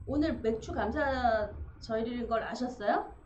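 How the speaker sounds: loud, playful question with a rise; teasing question. Real, not acted. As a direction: tease her warmly in front of everyone. Asks deacon in front of church.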